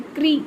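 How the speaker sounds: क्री with a clear r after the k; r sound. Shown as a demonstration. Teacher pointing out the r sound, demonstrated क्री. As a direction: say क्री as one syllable, kri. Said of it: "र की आवाज़ आती है इसमें".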